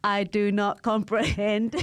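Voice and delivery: slow monotone robot; eighties robot voice. Pretend. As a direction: speak like an old eighties robot, slowly and evenly. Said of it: "as soon as you said eighties robot".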